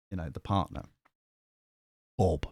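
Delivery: normal talking voice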